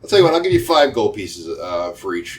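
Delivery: merchant giving in. Acted. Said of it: "he's like".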